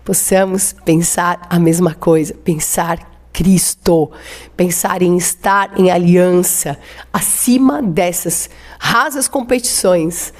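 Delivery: slow, earnest prayer to the Lord. Acted. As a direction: pray it out, drawing the words out. Pastor leads closing prayer. (oração pausada e fervorosa)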